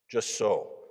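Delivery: mildly eager, with a firm push; eager agreement. A narrator's reading. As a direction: agree promptly and emphatically.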